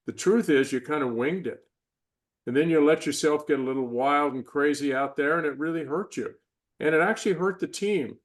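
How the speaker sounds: firm, no-nonsense self-rebuke; tough inner voice. Retold or imitated. Inner voice scolding an athlete who winged it, firm and stern. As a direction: call yourself out like a hard coach. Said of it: "Sometimes that voice is tough".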